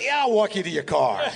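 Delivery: high mock-insistent offer; Mel Brooks. Mel insisting on walking further, hammed-up offer. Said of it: "He goes".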